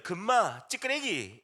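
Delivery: punchy Gyeongsang dialect words. Shown as a demonstration. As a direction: say it in Gyeongsang-do slang. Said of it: "우리 경상도 사투리로".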